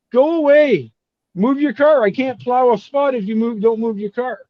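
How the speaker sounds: high, excited play-by-play of a mishap. Real, not acted. Friend relaying a snowplow standoff out the window, excited. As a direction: excitedly report it, pitched well up, amused.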